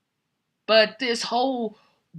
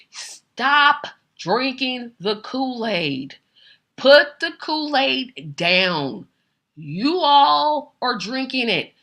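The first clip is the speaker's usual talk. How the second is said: slow, higher, word-by-word command; emphatic scolding; 4 semitones higher, slower than usual. Real, not acted. Host telling followers to stop believing blindly, emphatic scolding. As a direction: draw out each word as you tell them off.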